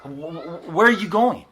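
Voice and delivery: mock-whiny Thomas voice; exasperated Thomas. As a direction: whine it like a lost follower. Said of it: "exasperated, right, in his voice".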